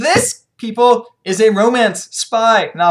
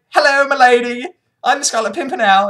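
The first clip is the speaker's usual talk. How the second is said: gallant hero; 4 semitones higher, 4 dB louder than usual. Retold or imitated. Hero voiced greeting his lady.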